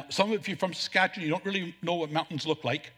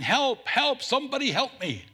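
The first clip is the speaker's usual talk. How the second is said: mildly raised cry for help, pitched higher; mock yell; 5 semitones higher than usual. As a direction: play the falling man calling out, half-hearted. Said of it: "And he's yelling".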